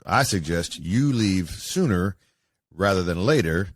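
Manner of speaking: slow, deliberate threat read out; lightly voiced caller, words spaced out slowly; menacing caller quote. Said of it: "these are the, the direct quote".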